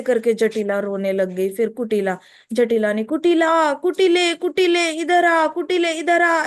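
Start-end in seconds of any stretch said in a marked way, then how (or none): 3.0-6.4 calling out. Acted. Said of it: "ऐसे करके बुलाया".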